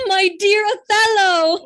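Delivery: high and loud, thrilled to see him; joyful reunion cry. Acted. Wife answers her husband at the reunion, loud and delighted.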